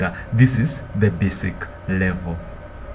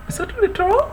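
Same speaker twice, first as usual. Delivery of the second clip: doubtful self-question. Real, not acted. Unsure of a word.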